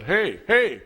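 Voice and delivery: hammed-up scolding, stretched out in disbelief; Tom Hanks. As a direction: cry it out like an exasperated film coach. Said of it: "doing his best Tom Hanks impression".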